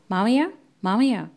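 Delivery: calling out across the house; impatient calling out; shouting call. Acted. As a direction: yell for him to come. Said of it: "కల్పన అరుస్తూ పిలిచింది".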